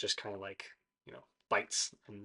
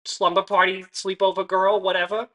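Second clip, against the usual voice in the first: scornful; 6 semitones higher, 11 dB louder than usual. Acted. Mocking, annoyed NPC complaint.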